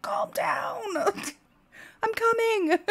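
high whispered soothing with a laugh; hushed calming. Retold or imitated. Mom retelling how she hushed her screaming toddler. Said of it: "And I was like".

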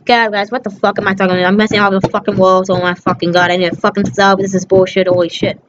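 fast, low, muttered cursing at the game; frustrated gaming rant. Real, not acted. Kid losing at his game, cursing at it in fast frustration. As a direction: swear under your breath as the game goes wrong.

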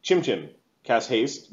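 ordinary talk

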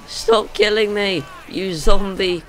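exasperated yell. Real, not acted. Player yells at attacking zombie.

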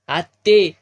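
calling out loudly across the house. Acted. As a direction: shout her name to reach the next room. Calling the old woman inside. (मोठ्याने हाक मारत)

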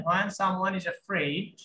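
very slow, evenly spaced when someone is afraid; slow model line. Shown as a demonstration. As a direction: say it word by word for the class to repeat. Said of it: "বলেন তো এখানে আমার সাথে সাথে".

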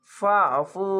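ফাফু with a thick, throat squeezed ain; throat pressed ain. Shown as a demonstration. Teacher demonstrates a pressed throat ain in ফাফু. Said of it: "আইনটিকে মোটা করে গলা চিপে পড়বেন".

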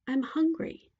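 high princess voice; pleading princess. A narrator's reading. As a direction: press the witch for food. Princess appeals to witch.

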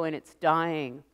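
ordinary delivery

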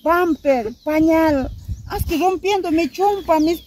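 indignant mother reminding her daughter; reproachful outburst. Acted. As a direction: hammer home what she gave you. Mother scolds, listing what she gave.

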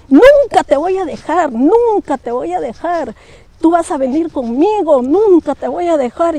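high, insistent ghostly voice, loud at first; a dead friend refusing to let go; ghost clinging. Retold or imitated. Dead friend pulling the girl in a dream, pleading high and insistent.

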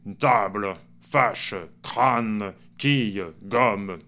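table, fâche, crâne, quille, gomme with a sounded schwa after the stressed vowel; southern-style endings, each E audible but unstressed; mute E pronounced. Shown as a demonstration. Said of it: "on dit le E muet". (E muet prononcé, à la méridionale)

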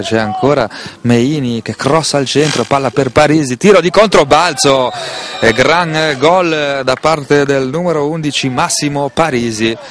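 rising excited goal call; breathless italian goal commentary. Real, not acted. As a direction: voice climbs to the goal.

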